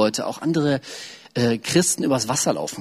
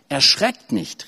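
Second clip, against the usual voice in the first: mild call; much slower than usual. Acted. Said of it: "rief er".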